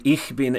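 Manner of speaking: "ich" with a rough ch as in Bach; ich with hard ch. Shown as a demonstration. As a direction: say "ich" with a throaty ch. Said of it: "some people say".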